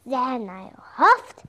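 slow, loud wolf threat rising high; growling wolf. Acted. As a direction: huff and puff like a hammy werewolf. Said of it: "said the wolf".

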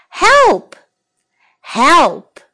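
high, frightened shouts for help; scared cry for help. Shown as a demonstration. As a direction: call out for help in fear. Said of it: "teacher repeats cry for help".

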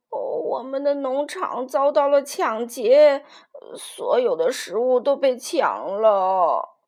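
put-on slow, pained old rooster lament; mild grief-stricken complaint. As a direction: drag the words out in distress. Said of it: "老公鸡卡洛痛苦地说".

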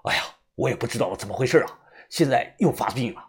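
mildly flustered, hurried answer; anxious reply. Acted. Braided man flustered by the sudden relapse, mildly anxious. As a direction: answer fast with a touch of worry. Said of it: "也着急地回道".

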